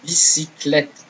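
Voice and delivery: "Bicyclette" slowly as bi-si-klet; slow French. Shown as a demonstration. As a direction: spell out "Bicyclette" syllable by syllable. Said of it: "Let's say those".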